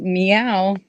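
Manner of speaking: a light meow in a cat voice; lightly meowing cat; kitty voice. Acted. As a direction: purr it like a kitten. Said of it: "has a kitty accent".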